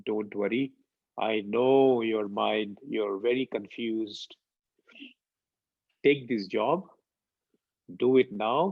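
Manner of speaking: calm him down gently, taking your time; gentle reassurance. Retold or imitated. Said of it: "looks at me in his most beautiful way".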